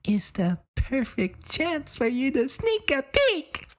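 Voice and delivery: scheming whisper. Acted. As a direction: lean in and whisper the sneaky plan. Scheming character whispers the plan.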